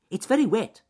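high, loud little animal voice; squeaky forest-animal chatter; small animal. A narrator's reading. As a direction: pipe up as a tiny woodland creature. Small animals chatting after storm.

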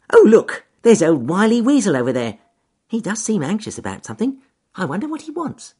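high, loud cheerful bunny; cheerful rabbit voice. Acted. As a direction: call up brightly to the trees. Rabbit talks to himself.

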